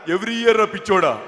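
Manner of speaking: slow punchline in lightly mimicked politician voice; V Hanumantha Rao. Politician correcting the silly questioner, slow mimicked delivery. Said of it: "Hanumantharao గారి bit ఒకటి".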